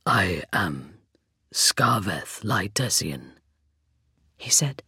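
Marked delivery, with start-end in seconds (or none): 0.1-3.4 low, hollow, slow rasp; skeleton voice. A narrator's reading. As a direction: speak like wind through bones. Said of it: "the hollow timbre of his voice".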